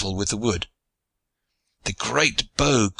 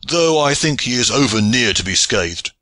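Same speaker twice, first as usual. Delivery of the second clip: mildly raised, emphatic voice; cry; 3 semitones higher, 4 dB louder than usual. A narrator's reading. John about the measurer near his mark, crying out mildly. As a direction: call it out with some force. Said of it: "cried John".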